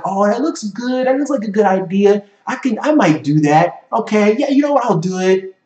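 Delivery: mock the half-hearted peasant who never starts; light mock of a wishy-washy dreamer; lazy peasant. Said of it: "Peasants are like".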